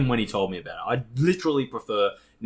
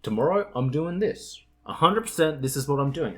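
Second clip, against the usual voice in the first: higher-pitched, emphatic vow; determined resolve; 5 semitones higher than usual. Acted. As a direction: declare your plan with mock certainty. Acting out confident planning self.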